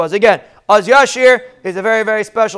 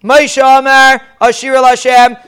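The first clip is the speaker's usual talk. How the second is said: called out louder, like a leader opening the song; leader calls out; 3 semitones higher, 5 dB louder, slower than usual. Shown as a demonstration. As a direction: lead the first words for all to repeat. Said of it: "So how did they say it?".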